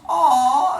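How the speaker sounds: a high, loud, charmed "aw"; touched aw. Acted. Metis swooning at Zeus's romantic picnic, high charmed aw. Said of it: "And she goes".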